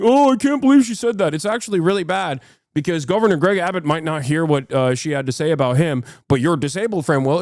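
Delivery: mocking pearl-clutch. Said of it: "be like".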